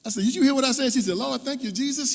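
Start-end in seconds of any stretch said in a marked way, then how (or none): 0.2-0.9 loud, high and disbelieving; yelling to be heard; incredulous shout. Retold or imitated. Shouting over celebrating parents. 1.2-2.1 high, loud joyful praise shout; mother's ecstatic shout of praise. Retold or imitated. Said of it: "She was just shouting".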